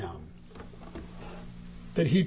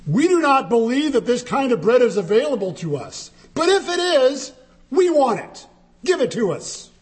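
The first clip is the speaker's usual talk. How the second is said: demanding crowd; 6 semitones higher than usual. Retold or imitated. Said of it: "They said something to the effect of this".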